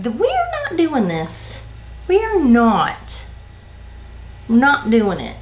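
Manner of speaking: "We are not" stretched slowly, then a pause; emphatic refusal. Retold or imitated. Worker refusing to cover for a coworker, "not" slow and emphatic. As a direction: put your foot down on "not", leaving gaps. Putting her foot down, retold.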